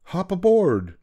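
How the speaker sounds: high, lightly voiced cheery bug; merry invitation. A narrator's reading. Bug inviting the spider up, merrily. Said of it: "laughed the bug".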